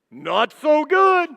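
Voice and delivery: slow, loud, drawn-out disappointment; preacher's loud, slow mock dismay; wry letdown. Real, not acted. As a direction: stretch it out with a wince. Preacher's contrasting punchline.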